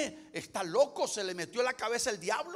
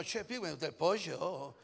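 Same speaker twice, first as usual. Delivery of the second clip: put-on Argentine accent; 2 semitones lower than usual. Preacher mimicking an Argentine for the congregation, Argentine accent. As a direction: put on an Argentine lilt, stretch the last word. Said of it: "Si usted es argentino".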